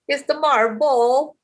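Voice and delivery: Filipino-accented MARVEL, drawn out slowly. Real, not acted. Mom explains how she says the title, in her Filipino accent. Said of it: "my Filipino accent".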